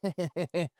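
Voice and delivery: sample supervillain chuckle; villain laugh. Shown as a demonstration. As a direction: laugh like the bad guy for a beat. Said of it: "you could play him like".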